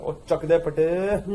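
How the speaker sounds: put-on playful Punjabi accent, quick and light. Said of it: "that should be said with accent".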